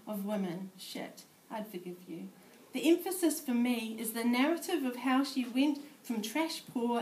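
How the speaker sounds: measured spoken-word poetry reading; poem reading. Acted. Poet reading her piece to a room of sociologists, measured recital. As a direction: read it as a performed poem.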